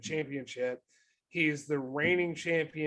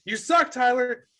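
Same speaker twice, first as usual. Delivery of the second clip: buddy's heckle; 8 semitones higher, 6 dB louder than usual. Retold or imitated. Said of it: "he goes".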